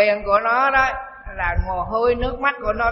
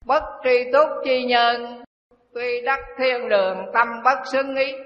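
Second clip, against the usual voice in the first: scripture recitation; 2 semitones higher than usual. Shown as a demonstration. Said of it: "Đức Phật dạy tri túc".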